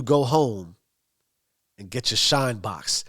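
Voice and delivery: understated taunt, trailing down low at the end; casual mocking jab. Bats teasing Tommy before the laughing bar, lightly mocking. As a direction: drop the insult lightly, as a joke. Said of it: "he mocks him a little bit".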